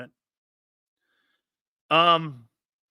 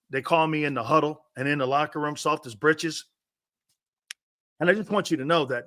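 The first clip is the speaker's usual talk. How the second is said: stammering, mock-polite player; lightly voiced overly nice lineman; mock soft intro. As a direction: act the soft lineman meeting his opponent. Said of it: "this is how Flexen would introduce himself".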